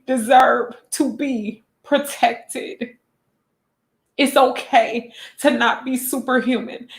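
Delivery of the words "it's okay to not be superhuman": tearful, breaking into a whisper; holding back tears, voice fading; crying. Real, not acted. Vlogger comforting viewers, fighting back real tears. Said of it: "I said I wasn't gonna get on her crying".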